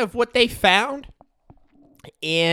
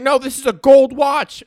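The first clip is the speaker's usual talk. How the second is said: higher, louder scolding mom; higher, louder mock mom; voiced mom; 8 semitones higher, 10 dB louder than usual. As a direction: play the mom who caught him.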